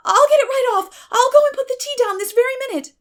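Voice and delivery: high, loud and fast; eager rush. A narrator's reading. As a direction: hurry to fix everything at once. Anne rushes to serve tea.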